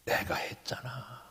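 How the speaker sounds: hushed, slow near-whisper; the Lord. Retold or imitated. God reminds the worried pastor who did it, hushed and slow. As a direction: say it very softly and slowly, as retold divine reassurance. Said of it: "이렇게 얘기하시대요".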